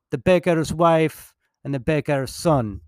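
a self-mocking, clumsy French accent; a hint of French accent, said slowly. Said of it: "Pardon the atrocious accent".

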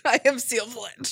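sick, slow gagging. Pretend. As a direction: choke the words out. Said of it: "gagging while telling you about their disease".

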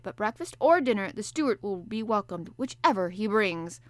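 a sleepy sailor answering the professor; gruff harpooner. Acted. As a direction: play the bluff Canadian harpooner, hearty and loud. Ned Land voiced.

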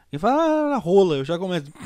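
trying not to laugh. Real, not acted. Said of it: "Eu não consigo segurar a risada".

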